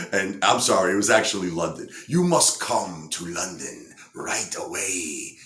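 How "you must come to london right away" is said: put-on slow summons in a makeshift German accent; badly faked German accent, drawn out. German lady calling Brian Johnson to London, in a mock German accent. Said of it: "I can't do a German accent".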